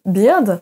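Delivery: beard with a long I, like biʀd; wrong vowel for bird. Shown as a demonstration. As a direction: show the wrong reading, beard. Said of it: "on ne prononce pas du tout".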